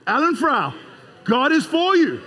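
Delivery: the whole crowd declaring it out loud together. Shown as a demonstration. Preacher leads the congregation to proclaim it loud. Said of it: "Take your name and say it loud".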